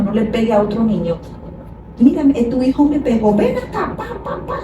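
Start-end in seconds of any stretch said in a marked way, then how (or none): 2.0-4.6 sudden jump to a high, scolding ven acá; mock angry parent. Parent acting out hitting back at the child, mock angry. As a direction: play a parent losing it and smacking.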